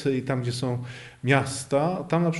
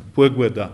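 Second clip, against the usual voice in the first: "puegueda" stressed on the first syllable; initial stress; 2 semitones lower, 5 dB louder than usual. Shown as a demonstration. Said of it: "Zwróćcie państwo uwagę na ten akcent". (akcent na pierwszą sylabę w "puegueda")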